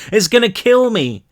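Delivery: panicked cry. A narrator's reading. Brick panicking.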